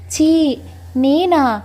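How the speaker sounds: drawn-out shocked "చీ, నేనా?"; recoil, slow and scandalised; squeamish disgust. Acted. Wife reacting to her friend's whispered idea, shocked and squeamish. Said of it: "మొహం వెగుటుగా పెడుతుంది".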